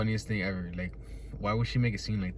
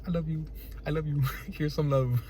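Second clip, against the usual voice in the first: soft, higher-pitched loving voice; mock-loving; 5 semitones higher, 4 dB quieter than usual. Telling the yelling lady I love you, mock-loving. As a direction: coo it softly through a laugh.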